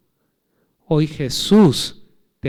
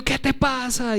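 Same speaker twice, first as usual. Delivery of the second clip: tired snap; 8 semitones higher, 4 dB quieter, slower than usual. Retold or imitated. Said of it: "Y en mi cansancio digo".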